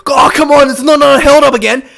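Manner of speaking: mock protest at the ref; frustrated protest. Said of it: "so frustrated".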